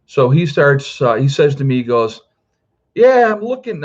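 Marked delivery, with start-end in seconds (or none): 2.9-3.8 high, louder burst of demanding talk; mock agitated stranger. Lunatic stranger accosting a dad at the gas station, mock agitated. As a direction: imitate a pushy oddball, pitched well up.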